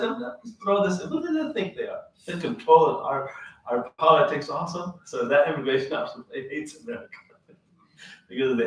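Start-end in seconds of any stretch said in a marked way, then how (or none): 0.0-5.0 high-pitched indignant outburst; much higher, scornful retold rant; retold fury of the sheikh; mad sheikh. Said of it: "He was actually mad at America".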